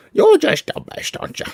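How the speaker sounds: high pitched pet talk to a puppy. Real, not acted. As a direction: gush at the dog in a high squeaky voice. Baby talk to the dog.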